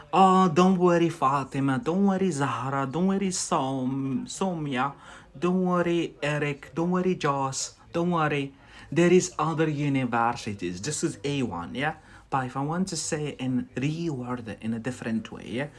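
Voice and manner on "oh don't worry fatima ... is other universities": plain consolation example. Shown as a demonstration. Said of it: "Instead of saying".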